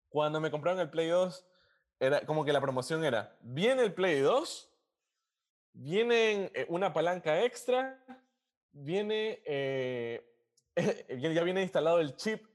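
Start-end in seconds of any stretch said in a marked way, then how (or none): 3.4-12.5 high, slow hyped sales pitch; hyped fairground barker. Retold or imitated. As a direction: hawk it like a street vendor. Retelling store sales pitch. (vendedor pregonando con entusiasmo)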